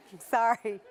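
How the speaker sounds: breathy laugh through sorry; sorry, said mid-laugh; laughing apology. Real, not acted. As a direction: giggle the apology out.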